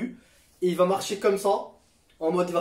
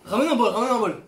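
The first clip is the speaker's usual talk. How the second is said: urgent call; 5 semitones higher, 5 dB louder than usual. Real, not acted. Chili burning, calls for bowl.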